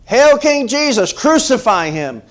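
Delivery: very high, loud, drawn-out shout; slow, acted mob cry falling in pitch; crowd's cry. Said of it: "what were they crying?".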